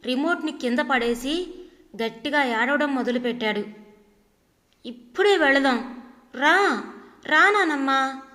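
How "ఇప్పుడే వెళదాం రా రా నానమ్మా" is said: put-on loud wailing child voice calling grandma; crying child's shout. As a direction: shout it like a bawling little boy, louder. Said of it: "అని గట్టిగా అరుస్తున్నాడు". (ఏడుస్తూ గట్టిగా అరిచే పిల్లవాడి గొంతు)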